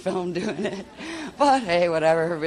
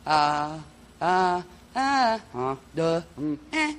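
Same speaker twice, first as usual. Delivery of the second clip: short single vocal tones; toning one syllable at a time; one-syllable tone sounds; 4 dB louder, much slower than usual. Shown as a demonstration. Teacher demonstrating single tones. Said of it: "one syllable would be like".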